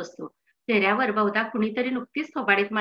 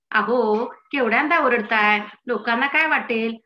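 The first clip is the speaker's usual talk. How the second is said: louder, reproachful telling-off; scolding wife; 4 dB louder than usual. Acted. Wife to husband yelling with toothache, scolding. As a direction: chide him like an exasperated wife. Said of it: "अशी दमदाटी बायकोशिवाय कोण करणार".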